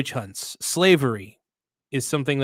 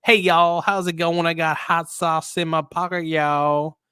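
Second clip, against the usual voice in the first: Kamala's fake accent; 4 semitones higher, slower than usual. Imitating a put-on folksy Southern accent for a laugh. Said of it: "they call it the black scent".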